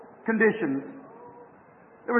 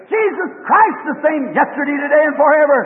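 put-on a mother eagle crying down to her lost child; mother eagle screaming; 2 semitones higher, 3 dB louder than usual. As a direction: call it out like the eagle screaming from the sky. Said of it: "She screamed".

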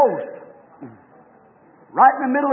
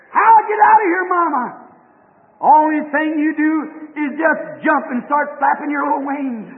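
hollering mother eagle; 3 dB louder than usual. Acted. Mother eagle urges her son.

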